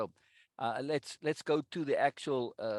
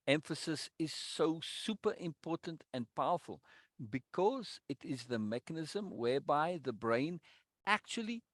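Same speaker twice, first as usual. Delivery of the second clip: deliberate, measured read of lesson text; emphatic reading aloud. Acted. Reading the course text aloud to the group, emphatic and deliberate. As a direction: read it out, leaning on the key words.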